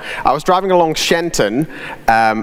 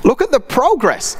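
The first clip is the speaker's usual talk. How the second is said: mock wow at the building site; imitating his own excited yell from the car; retold excited exclamation; 10 semitones higher, slower than usual. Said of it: "immediately I yell".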